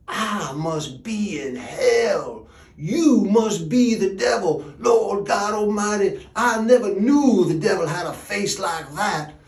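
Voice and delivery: acted terror, voice rising and swelling; horrified outcry. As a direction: cry out as if waking in hell. Supposed dead man cries at gravedigger.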